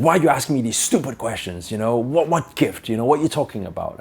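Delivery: mild exasperated outburst. Retold or imitated. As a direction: lightly act the fed-up man. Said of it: "got even more frustrated and said".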